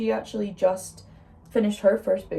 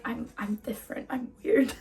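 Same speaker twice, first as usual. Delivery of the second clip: laughing; 4 semitones higher than usual. Retold or imitated. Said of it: "I'm like".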